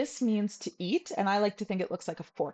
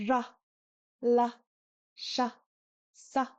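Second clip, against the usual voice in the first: ra, la, sha, sa in high tone; each syllable pitched up, spaced out; 3 semitones higher, slower than usual. Shown as a demonstration. Teacher introduces the high tone row, syllables in high tone. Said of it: "we have a high tone row".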